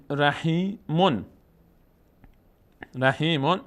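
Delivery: رحیمون in slow pieces, "ra-hee-mun"; tanwin sounded. Shown as a demonstration. Teacher gives another tanwin example, ending sounded. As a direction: say رحیمون with the final "-mun" fully voiced. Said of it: "تنوین اگه تنوین اون بود".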